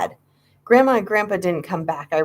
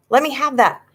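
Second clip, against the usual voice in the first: demanding; 7 semitones higher than usual. Acted. Grabbing for letter.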